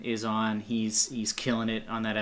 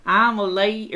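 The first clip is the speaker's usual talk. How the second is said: higher, lightly mocking a childish lady voice; mock little kid voice; 8 semitones higher, 6 dB louder than usual. Mocking the actress's childish line, higher. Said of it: "I can't even do it 'cause her voice".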